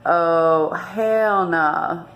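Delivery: flat-out no, said with fire; fiery, loud hell nah; defiant refusal. Retold or imitated. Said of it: "that I was like".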